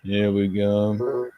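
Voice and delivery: bossy railway controller. Acted. Controller tells Gordon he must pull the Kipper. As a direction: lay down the new orders.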